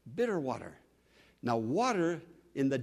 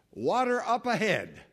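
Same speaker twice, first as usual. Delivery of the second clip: higher, stretched-out call; scout calling out; 5 semitones higher, 5 dB louder than usual. Retold or imitated. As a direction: imitate a scout announcing good news. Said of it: "when the scout came back and said".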